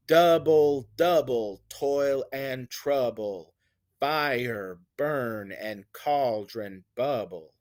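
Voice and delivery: falling beat, hard on DOU in "Double"; trochaic beat. Shown as a demonstration. Teacher demonstrating trochaic lines from the witches' chant, trochaic beat. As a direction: chant it with stress on each first syllable, "Double", "trouble", "bubble". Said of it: "the stress syllable is first here".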